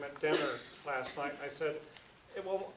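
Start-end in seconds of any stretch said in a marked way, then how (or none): 2.4-2.7 light chuckling through the words; half-laughing as he repeats what he told Steve; laughing while quoting himself. Retold or imitated. Retelling his own words, laughing.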